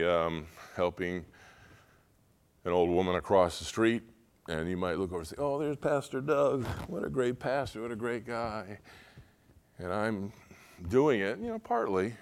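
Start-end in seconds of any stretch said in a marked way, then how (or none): 5.4-8.8 lightly voiced admirer, soft; a hint of put-on admiration; admiring onlooker. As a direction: gush quietly as an impressed bystander.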